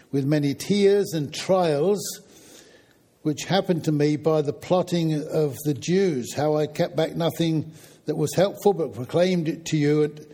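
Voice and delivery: measured, emphatic Bible reading aloud; scripture reading. Acted. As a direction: read the passage out clearly to the congregation. Reads Bible passage aloud to congregation.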